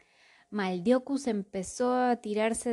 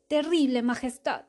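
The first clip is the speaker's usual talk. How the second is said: lamenting; 4 semitones higher, 4 dB louder than usual. Acted. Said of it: "se lamentó Maldeocus".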